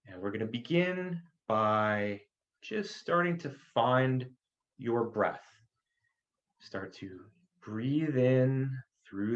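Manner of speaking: calm breathing cues with long pauses; guided meditation. Acted. Doctor guiding listeners to find their breath, guided meditation. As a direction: guide them gently through each breath, unhurried.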